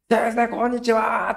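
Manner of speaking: put-on a grinning boy who has got his family back; cheerful boy. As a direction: beam out the hello like a happy kid. Boy cheerfully greets teacher again.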